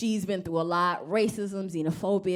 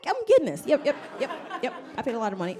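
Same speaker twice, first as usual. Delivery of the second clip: mock eager; 6 semitones higher, much faster than usual. Retold eager reply to psychiatrist.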